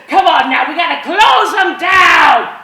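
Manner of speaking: put-on loud, slow rallying cry to the boys; rallying shout. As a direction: whip the gang into action, draw it out.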